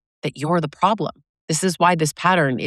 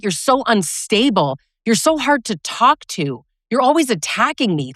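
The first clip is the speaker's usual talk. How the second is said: imitating a condescending abuser, higher pitched; mock abuser; 6 semitones higher than usual. Woman mocking an abuser blaming his partner, condescending. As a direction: sneer it like a gaslighting partner.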